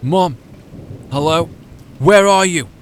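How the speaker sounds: frantic high shouting; screaming. A narrator's reading. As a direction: scream out for her in panic. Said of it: "I screamed out to her".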